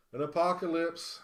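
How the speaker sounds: excited shout of the card name; excited callout. Real, not acted. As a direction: blurt the name out in thrill.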